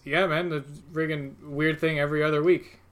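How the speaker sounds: put-on casual New York accent, bartender talk; lightly voiced New York bartender; New Yorker bartender. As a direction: play a local New York barman. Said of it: "this guy's turned into a New Yorker".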